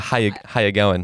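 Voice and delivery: a mild try at Australian, "How you going"; Australian accent. Shown as a demonstration. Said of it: "You gotta use the accent a little bit".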